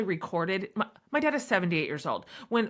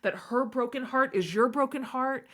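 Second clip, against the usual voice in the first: warm; 3 semitones higher than usual. Retold or imitated. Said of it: "And I was like".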